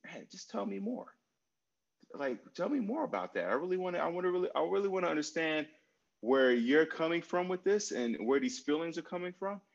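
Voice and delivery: curious and caring. Shown as a demonstration. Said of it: "of, of just".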